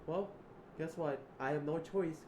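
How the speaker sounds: loud, high and defiant; defiant shout. Acted. Hurling defiance at Edward, shouting. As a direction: yell the refusal right at him.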